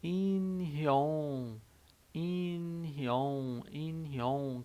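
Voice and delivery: "inhyon" sounded out with a falling tune; Korean word demo. Shown as a demonstration. Teacher teaching army fans the word, careful. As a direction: model "inhyon" slowly. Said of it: "é a palavra".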